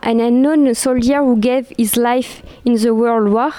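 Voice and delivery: slow English with a French accent. Real, not acted. Lecturer reads the inscription aloud, French-accented English. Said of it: "désolée pour mon anglais".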